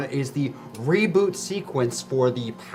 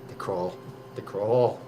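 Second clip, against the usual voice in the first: ominous hush; 6 semitones lower, 9 dB quieter, much slower than usual. Acted. Ominous survivor warning.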